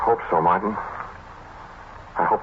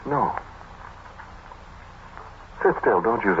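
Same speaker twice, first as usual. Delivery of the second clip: higher, urgent command to stay put; tense snap; 5 semitones higher, 6 dB quieter than usual. Acted. Austin frightened in the dark telling Martin not to move, urgent. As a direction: fear turning sharp.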